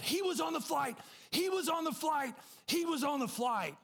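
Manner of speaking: high, insistent, repeated cry; acted high-pitched alarm; frantic exclaiming. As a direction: imitate someone urgently alerting a colleague. Flight attendant frantically telling the pilot.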